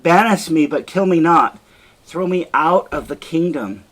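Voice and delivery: a wife begs her husband to spare her, desperate; desperate plea. Acted. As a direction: plead for your life. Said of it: "And Desdemona says".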